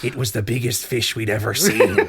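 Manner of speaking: cracking up mid-line; old sailor voice through laughter; laughing sea captain voice. Pretend. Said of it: "a different sea captain voice".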